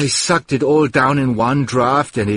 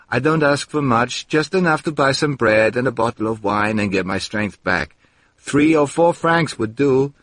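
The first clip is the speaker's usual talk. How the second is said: pleading prayer; 3 semitones higher than usual. Acted. Narrator's prayer to a saint.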